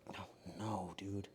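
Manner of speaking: low, hushed groan of worry; quiet dismay. Real, not acted. Baker spotting trouble, whispered dismay. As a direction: whisper it to yourself, sinking.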